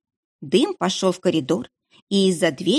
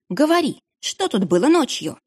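demanding; 6 semitones higher than usual. Acted. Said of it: "рассердилась Анна".

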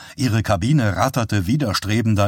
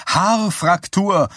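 shouted; 9 semitones higher, slower than usual. A narrator's reading. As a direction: yell the word at him across the ride. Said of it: "rief sie ihm zu".

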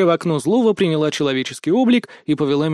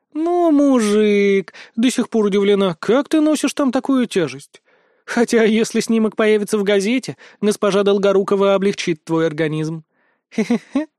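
teasing Hihal; 5 semitones higher than usual. Acted. Hihal teases him.

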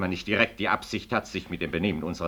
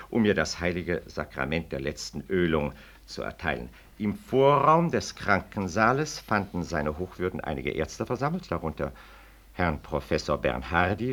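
measured, official reading of a document; formal reading aloud. Acted. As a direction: read the petition out like an official notice. Reads interpellation aloud.

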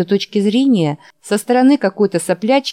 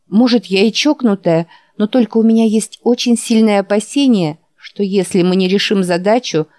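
insistent; 2 semitones higher than usual. Acted. Heroine insists, raised voice.

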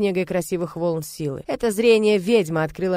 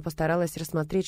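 usual speaking voice

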